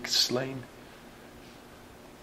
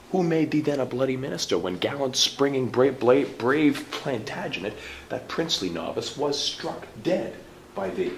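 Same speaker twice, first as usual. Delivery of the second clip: accusing; 5 semitones higher, 4 dB louder than usual. Acted. Murderer accuses Clarence of murder.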